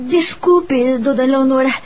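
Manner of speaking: nervous stammer, stopping and restarting; shy maid working up courage, stumbling over words; timid hesitation. Acted. Shy young teacher asks the lady of the house, nervous stammer. Shy girl interrupts her employer.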